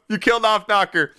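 ordinary delivery

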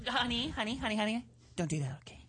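lightly teasing impression of the co-host; imitating the co-host. Host doing the co-host to their face, playful imitation. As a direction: mimic a fussy "honey, honey" plea. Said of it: "I'm doing you".

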